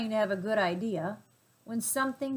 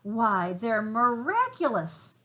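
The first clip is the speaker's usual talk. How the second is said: amazed little monkeys; 5 dB louder, slower than usual. Acted. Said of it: "said the six little monkeys".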